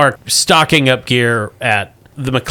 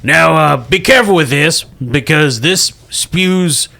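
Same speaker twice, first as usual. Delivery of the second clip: mock serious warning; 3 semitones higher than usual. GM voicing shopkeeper's warning.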